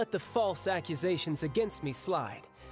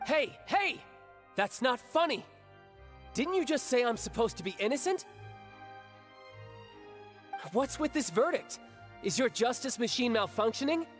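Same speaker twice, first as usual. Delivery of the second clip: indignant protest; 5 semitones higher than usual. Acted. Accused protests the guilty verdict.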